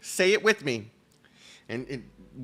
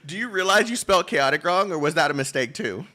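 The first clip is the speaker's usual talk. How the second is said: mock Comey; 7 semitones higher, 7 dB louder than usual.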